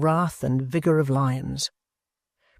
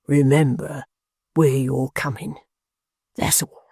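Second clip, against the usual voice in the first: threat fading to whisper. Acted. Hangman's parting threat.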